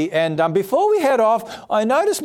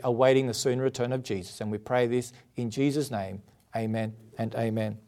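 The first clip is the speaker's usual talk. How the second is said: prayer; 3 semitones lower than usual. Acted. Leads congregation in prayer.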